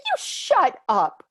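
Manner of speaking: slow, loud, firm command; spirit guides. Retold or imitated. Spirit guides scolding the speaker, slow and loud. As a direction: lay down the law as her guides. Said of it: "they're like".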